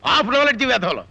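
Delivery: worked-up teacher telling off a class; exasperated string of insults; angry scolding. Acted. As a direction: scold them with a touch of temper. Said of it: "ఏమిటండి ఆ ఆవేశం, ఏమిటా కోపం".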